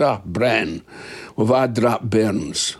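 put-on slow, light Scottish mother's accent; a Scottish mum, unhurried. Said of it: "I'll have to do it in a Scottish accent".

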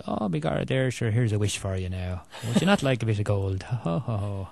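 a light stage-Irish leprechaun voice, mostly near normal; lightly hammed-up fairy offering a wish and gold. Author mocks clichéd movie fairy dialogue, lightly hammed leprechaun. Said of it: "not the usual".

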